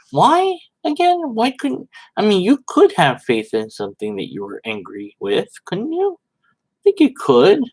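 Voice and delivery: baffled, pushing back on the logic; puzzled questioning. Real, not acted. Questioning the argument aloud.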